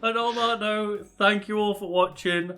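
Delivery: lightly voiced radio announcer outro; a hint of an old radio announcer. Signing off the show.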